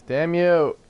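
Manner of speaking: mock curse.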